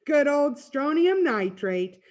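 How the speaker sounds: slow, high, relishing cry; loud, drawn-out fond cheer; delighted exclamation. Acted. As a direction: savor it slowly and happily. Freak delights in fireworks chemistry.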